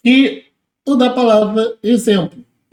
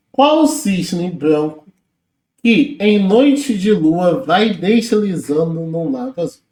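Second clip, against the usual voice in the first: slow poem reading; slower than usual. Acted. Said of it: "reads poem line from question".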